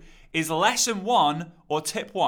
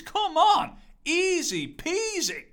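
laughing; 13 semitones higher, much slower than usual. Real, not acted. Laughing at how easy.

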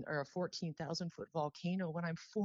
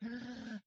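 sharp choked gasp in, throat tight; 6 semitones higher, 7 dB quieter than usual. Retold or imitated. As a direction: gasp as if choking. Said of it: "that choke around my throat".

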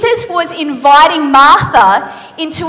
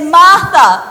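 weighty Jesus; slower than usual. Acted. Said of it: "looks in her eyes and he says".

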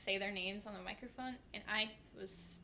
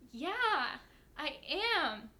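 put-on British accent, pitched higher; 4 semitones higher, 5 dB louder, much slower than usual. Customer faking being from England, British accent. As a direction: answer in a pretend British accent. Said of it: "like, this British accent".

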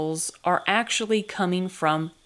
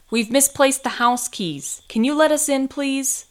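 raised, higher voice asking to be let in; calling out; 8 semitones higher, 4 dB louder than usual. A narrator's reading. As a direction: call through a closed door. Calling from outside the door.

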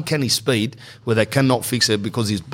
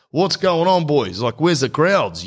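retold puzzled greeting; 5 semitones higher than usual. Retold greeting to empty bakery staff.

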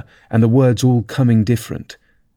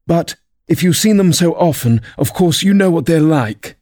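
higher-pitched storybook turtle; Mock Turtle character voice; 7 semitones higher than usual. A narrator's reading.

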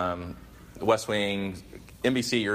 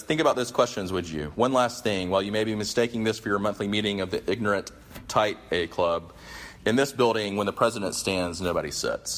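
commanding. Retold or imitated. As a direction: deliver it as the last word. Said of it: "his drop the mic moment".

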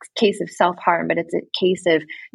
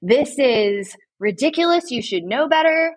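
higher-pitched, exasperated mock rebuke; mock scolding; 5 semitones higher than usual. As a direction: tell them off in mock indignation. Imagined scolding response, rejected.

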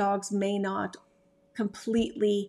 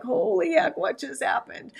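puppy's shock; 7 semitones higher than usual. Retold or imitated. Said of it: "They're like".

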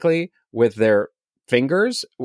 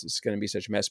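trailing the worry off, much softer and under the breath; repeated much softer; 4 semitones lower, 11 dB quieter, much faster than usual. Retold or imitated. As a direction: echo the dread to yourself, much softer. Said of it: "and I'm like".

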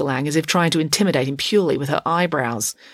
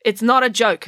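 earnest; 5 semitones higher, 5 dB louder than usual. A narrator's reading. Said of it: "said Finn earnestly".

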